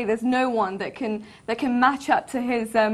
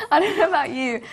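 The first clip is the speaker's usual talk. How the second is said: repeats it through a laugh, a bit faster; 3 semitones higher, faster than usual. Real, not acted. To the co-host about Goliath, laughing. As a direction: chuckle while saying it again.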